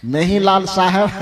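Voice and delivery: slow, chuckling मेही लाल साहब; amused punchline. Shown as a demonstration. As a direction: end the lineage with a playful laugh. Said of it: "देवी साहब के बाद".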